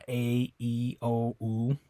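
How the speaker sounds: "A, E, O, U" as pure Spanish ah, eh, oh, oo; Spanish vowels ah eh oh oo. Shown as a demonstration. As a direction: sound out each vowel clean. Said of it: "the way you say those is ah".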